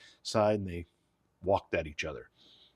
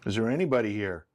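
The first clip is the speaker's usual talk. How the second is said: calling out; 3 semitones higher, 5 dB louder than usual. Real, not acted. Calling out to spirits.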